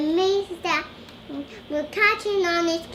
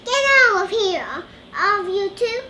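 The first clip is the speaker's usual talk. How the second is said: fast, louder mock yell; angry shout; 4 dB louder, faster than usual. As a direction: chase them off as angry Bob. Reading angry Bob's shout.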